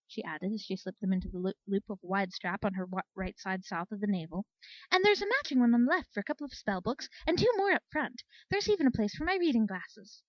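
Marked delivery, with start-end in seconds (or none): 4.9-10.2 happily. Acted. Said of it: "she added happily".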